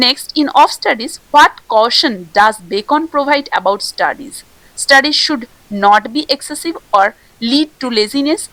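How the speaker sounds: slow, deliberate reading of a quiz question; unhurried exam question read. Acted. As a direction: read each option out slowly for the class. Reads quiz question and options.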